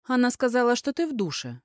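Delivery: a tattling complaint. Acted. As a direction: tell on her, aggrieved. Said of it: "наябедничала Лекси".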